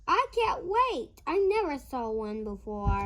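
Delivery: excited little diver, quickening; eager Pete. Acted. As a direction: burst out with eagerness, then hurry. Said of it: "says Pete".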